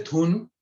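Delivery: "dhun" with the final na cut short and half-said. Shown as a demonstration. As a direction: clip the na in "dhun", Hindi-style. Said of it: "the na is pronounced half".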